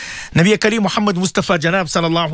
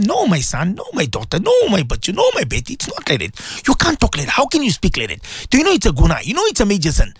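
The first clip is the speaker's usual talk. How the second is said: lightly voiced parent correcting a child; a touch of pleading reproof, pitch swinging up and down; admonishing parent; 4 semitones higher than usual. Parent telling son and daughter not to talk like that, mildly scolding. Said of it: "Tell them".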